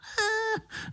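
short high chuckle; high laugh. A narrator's reading. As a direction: let out a squeaky laugh. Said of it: "rozesmál se Pišta".

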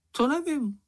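very high, piping small-animal voice; squeaky little creature. A narrator's reading. Čenich answering the others in a high piping squeak. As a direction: pipe it up like a tiny critter.

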